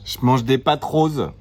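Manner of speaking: talking with mouth full; words round a mouthful of pasta. Real, not acted. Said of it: "tu parles la bouche pleine".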